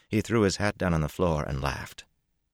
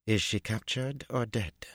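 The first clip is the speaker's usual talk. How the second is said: high, slow, cool questioning; a poised young empress asking; Tuon's voice; 6 semitones higher, slower than usual. A narrator's reading. Tuon asks coolly.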